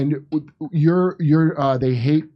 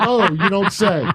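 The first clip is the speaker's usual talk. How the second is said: sarcastic; 4 semitones higher, slower than usual. Retold or imitated. Sarcastic reply to Wilson.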